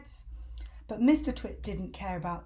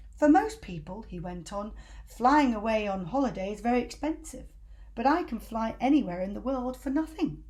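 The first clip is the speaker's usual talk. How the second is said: grand boasting; 4 dB louder than usual. Acted.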